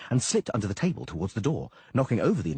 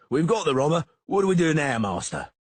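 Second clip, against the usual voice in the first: yelling; 7 semitones higher, 6 dB louder than usual. A narrator's reading. Masons yelling.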